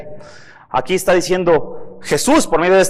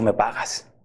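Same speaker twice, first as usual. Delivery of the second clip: low, soft menacing growl; menacing demand; 8 semitones lower, 7 dB quieter, slower than usual. Retold or imitated. Servant choking his debtor, low menacing demand. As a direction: grip him by the throat and demand. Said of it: "Le dijo".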